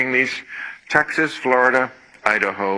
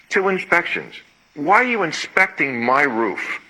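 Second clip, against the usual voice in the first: rising to an outraged shout on the last words; furious homeowner yelling at red tape; angry rant; 6 semitones higher than usual. Real, not acted. Ranting about roof inspections.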